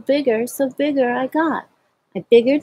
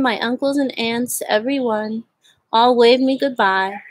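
plain reading voice

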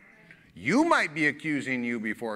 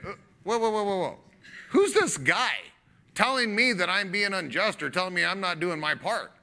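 voicing God; 4 semitones higher than usual. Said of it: "This is God saying".

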